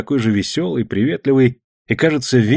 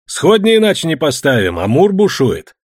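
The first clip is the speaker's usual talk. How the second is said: calling out; 5 semitones higher, 4 dB louder than usual. A narrator's reading. Shouting over river from ship.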